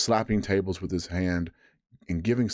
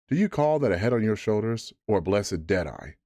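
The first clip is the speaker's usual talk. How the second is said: cried Long John; 2 semitones higher than usual. Acted. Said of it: "cried Long John".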